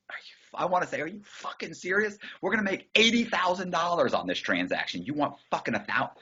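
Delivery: high unvoiced whisper, holding back a laugh; stifled whisper. Hiding a laugh from Eric in a high hushed whisper. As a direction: whisper it behind your hand. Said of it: "trying not to laugh".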